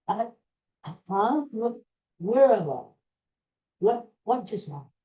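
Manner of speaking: acting out a stunned daze; halting, bewildered, as if just coming to; dazed and confused. Starstruck fan answers after meeting the singer, acted dazed confusion. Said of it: "dazed and confused".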